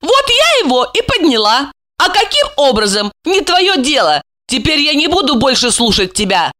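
high, assertive female character; defiant woman. Acted. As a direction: declare independence in a high voice. Voices Alexandra defying Gorokhov.

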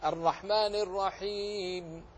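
pause-marked Quran recitation; pause at verse end. Shown as a demonstration. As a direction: stop after الرحيم and rest the final م. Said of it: "فسكنت لأجل العارض للوقف".

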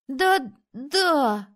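put-on high, quick-fire boyish yeses; eager boys agreeing. A narrator's reading. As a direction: chime in like eager little rascals. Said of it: "хором подтвердили два других сорванца". (мальчишки наперебой поддакивают)

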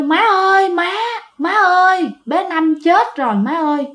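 high, urgent cry for mom through the door; desperate calling out. Retold or imitated. Son-in-law bangs on the door at midnight, calling out high and desperate. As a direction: call out to her in panic.

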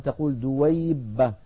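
دويبة said slowly, ي lengthened before the doubled ب; demonstrated word. Shown as a demonstration. Teacher shows an Arab diminutive, slowly. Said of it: "والعرب تقول في غير القرآن".

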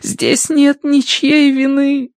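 very slow, high trembling plea; shaky voice. A narrator's reading. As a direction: plead slowly, trembling. (дрожащим голосом)

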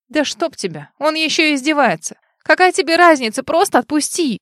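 громче и выше, вспылив; сорвись на него с досадой; раздражённый окрик. A narrator's reading. Героиня вспыхивает от раздражения. (раздражённо, срываясь на крик)

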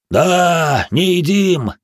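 loud, high guffaw. Acted. The giants guffaw in agreement that they don't eat vegetables. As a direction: bellow it through a laugh. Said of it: "загоготали гиганты".

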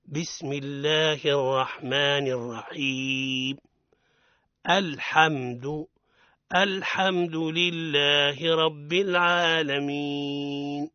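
slow, melodic tajweed chant; Quran recitation. Shown as a demonstration. Teacher reciting the Fatiha opening for listeners, slow chant. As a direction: recite it slowly and evenly, as in prayer.

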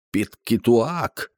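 high, slow drawn-out screech; the falcon shrieks its name for the raven; stretched bird cry; falcon's screech. Acted. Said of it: "заверещав Перегрін".

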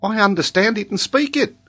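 put-on high child's voice with marked accent; young Aboriginal boy's accented English, pitched high. A narrator's reading. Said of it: "but with a marked accent".

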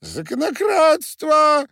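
very high, loud, slow squeal of a tiny furious man; little miller yelling Пшёл вон at Perkhusha; squealing shout. A narrator's reading. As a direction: scream it at the coachman in a high squeak.

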